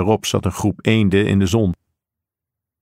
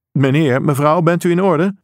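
lightly acted officer, raised pitch; higher, questioning voice of a policeman; concerned officer; 6 semitones higher than usual. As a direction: call out a mild, concerned check. Officer checks on shaken family.

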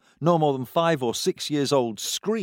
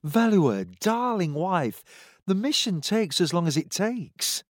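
placating; 7 semitones higher than usual. A narrator's reading. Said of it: "in what he hoped was a placating voice".

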